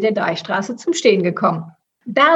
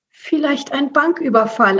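higher, mildly anxious character voice; a touch of fearfulness; 5 semitones higher than usual. Acted. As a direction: suggest it with nervous worry. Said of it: "antwortete Margarete ängstlich".

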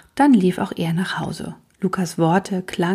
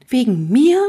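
higher, rising startled question; a touch of alarm, pitched up; 5 semitones higher, 4 dB louder than usual. A narrator's reading. Jim learns he is the reason, startled. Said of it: "fragte Jim erschrocken".

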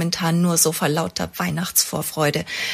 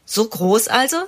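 lächelnd; 4 semitones higher than usual. A narrator's reading. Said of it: "sagt Ella lächelnd".

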